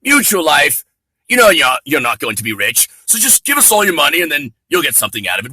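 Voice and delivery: radio sponsor-spot voice, hammed-up; mock announcer. Closing sponsor message read like a cheesy ad. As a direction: sell the insurance company like a cheesy ad read.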